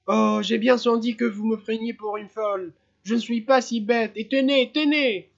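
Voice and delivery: high, loud, frantic cry; cried out. A narrator's reading. Mother crying out to the inspector that her son vanished, frantic and loud. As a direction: shout it at the inspector in a panic. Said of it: "elle cria".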